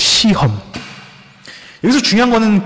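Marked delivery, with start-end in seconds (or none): 0.0-0.6 single word, carefully drawn-out, slow and deliberate. Stressing the key word in a Bible passage talk: deliberately slow word. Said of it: "제가 발음이 안 좋아서 일부러 느리게 말하는 겁니다".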